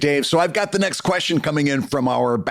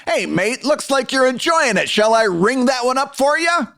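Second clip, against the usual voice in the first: higher-pitched, hammed-up British accent; 8 semitones higher than usual. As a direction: put on a dubious British accent, cheeky Butcher style. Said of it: "listen to the speaker's note perfect accent for whatever the hell that was".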